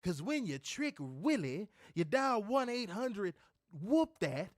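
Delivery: low, soft mock wrestler patter; mock rhyming promo. Recalling a wrestler's rhyming promo, mockingly. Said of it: "he started talking in rhymes".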